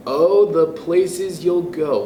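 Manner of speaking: lively storybook read-aloud voice; expressive picture-book reading; reading to children. Acted. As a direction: read it to a class of kids, bright and sing-song. Teacher reads picture book aloud.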